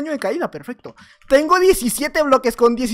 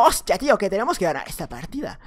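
put-on Spanish accent; 3 semitones lower than usual. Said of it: "ya no me sale el acento".

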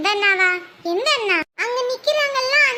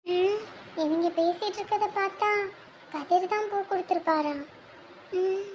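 quiet inner monologue; 6 dB quieter than usual. Acted. Inner thoughts about the flowers.

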